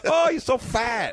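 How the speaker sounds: very high, slow teasing voice; mocking chef voice. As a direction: drag out the insult in a high squeak. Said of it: "Through your character voice".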